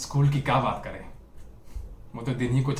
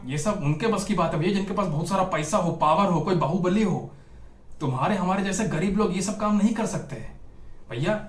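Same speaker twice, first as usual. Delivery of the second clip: lightly voiced naysayer, pitched up; a touch of scolding, higher-pitched advice; discouraging naysayer; 4 semitones higher than usual. Villager talking a poor boy out of politics, mildly scolding. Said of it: "तो कोई बोलता था कि".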